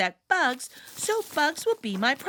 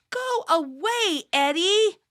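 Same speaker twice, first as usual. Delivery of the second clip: high, rising, fed-up go away; annoyed shout; 6 semitones higher, 3 dB louder than usual. Acted. Yara telling the teasing boy to leave. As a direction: shoo him off.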